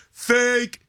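sharp high mock heckle; heckler yell. Drunk biker heckling the comic onstage, mock yell. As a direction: shout it from the crowd like a drunk heckler. Heckler yelling in retold story.

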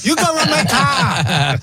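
high, slow, laughing mock Asian accent; hammed-up Asian accent shout. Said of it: "Did I sound Asian?".

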